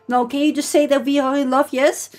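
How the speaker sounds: lightly mimicked Dutch accent, insistent. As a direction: imitate a Dutchman pressing for an answer. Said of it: "doesn't help his Dutch accent either".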